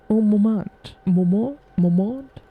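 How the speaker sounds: laughing, slowed French "Un moment"; mock French accent. Player mimicking Toussaint's line in a mock French accent. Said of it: "He's the only one I remember".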